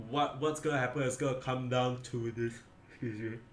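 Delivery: talking through a yawn; stifle a yawn mid-sentence. Real, not acted. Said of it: "Yawning a little bit here".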